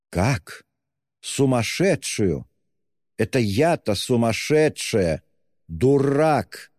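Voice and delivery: high, slow shrieking fury. A narrator's reading. Katerina shrieks at Luzhin, high and furious. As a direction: shriek it in her face. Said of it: "взвизгнула Катерина Ивановна".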